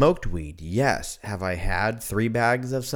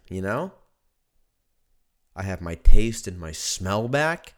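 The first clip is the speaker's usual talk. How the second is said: usual speaking voice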